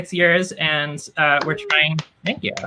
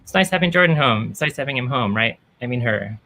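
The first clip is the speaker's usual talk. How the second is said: lightly voiced flustered family member; a hint of a panicked parent. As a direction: babble the corrections nervously. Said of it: "They're like".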